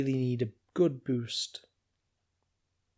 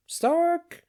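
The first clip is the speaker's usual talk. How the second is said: muffled; 5 dB louder than usual. A narrator's reading. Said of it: "said a muffled voice from the drawer".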